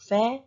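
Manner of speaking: "feather" broken as fea-ther, pause in the middle; syllable by syllable. Shown as a demonstration. Teacher repeats why it's two syllables, "feather" in separate parts. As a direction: sound out "feather" in two beats. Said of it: "that's why it's two syllables".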